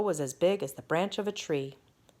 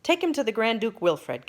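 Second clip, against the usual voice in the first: commanding king; 5 semitones higher, 4 dB louder than usual. Acted. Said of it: "commanded the king".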